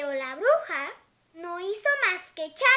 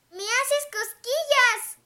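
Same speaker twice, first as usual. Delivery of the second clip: giggling mermaid; 6 semitones higher, 5 dB louder, slower than usual. Acted. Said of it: "dijo riéndose".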